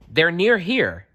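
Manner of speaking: calling out. A narrator's reading. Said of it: "he called to Vixen".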